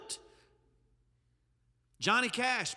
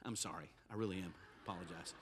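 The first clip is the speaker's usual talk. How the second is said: mock apology; 14 semitones lower, 15 dB quieter, faster than usual. Real, not acted. Mock apology after joke.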